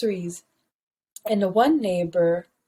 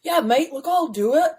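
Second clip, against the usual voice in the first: higher-pitched, light Scottish imitation; attempted Scottish accent; 5 semitones higher than usual. Imitating the Scottish funeral interrupter taking a job, light Scottish accent. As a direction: try a casual Scottish accent. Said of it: "he's, like, Scottish, so he, like, has an accent".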